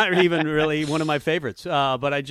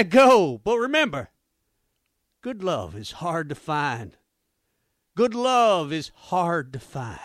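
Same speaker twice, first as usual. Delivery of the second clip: spoken country twang over rock lyrics; country accent. Pretend. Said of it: "I'll do it in a country accent".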